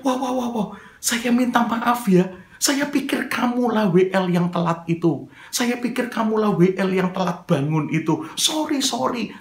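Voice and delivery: acted sheepish sorry; flustered apology. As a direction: backpedal in surprise after a wrong accusation. Re-enacts his startled apology.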